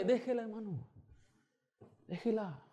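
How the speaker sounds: calm dismissal. Retold or imitated.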